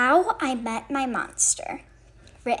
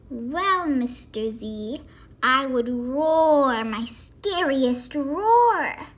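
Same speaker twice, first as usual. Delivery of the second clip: boasting little monster; 6 dB louder, slower than usual. Acted.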